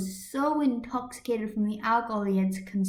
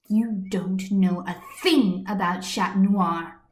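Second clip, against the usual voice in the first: angry; 3 dB louder than usual. Acted. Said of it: "sheer anger in the voice".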